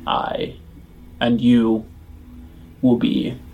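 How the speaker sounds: deep gravelly voice. Acted. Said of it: "in a deep kind of gravelly voice".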